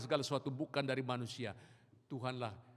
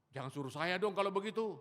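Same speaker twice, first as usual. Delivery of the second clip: alarmed refusal; 9 semitones higher, 6 dB louder than usual. Retold or imitated.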